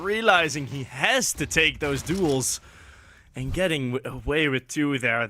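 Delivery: analyst commentary. Acted. Colour commentary after round.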